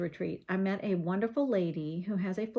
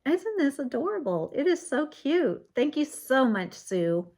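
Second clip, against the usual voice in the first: high, bright-eyed delight over the card; thrilled thanks for a handmade card; delighted gushing; 6 semitones higher, 3 dB louder than usual. Real, not acted. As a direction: gush with real delight.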